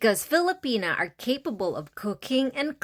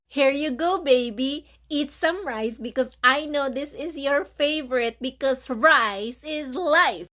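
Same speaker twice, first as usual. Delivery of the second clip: sweet offering; 4 semitones higher than usual. Shown as a demonstration. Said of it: "you can offer her some food".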